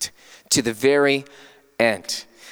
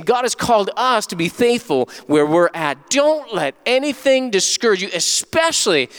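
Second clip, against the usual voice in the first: raised, insistent pulpit delivery; emphatic preaching; 5 semitones higher than usual. Real, not acted. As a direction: drive each phrase home to the congregation. Exhorts congregation to faithfulness.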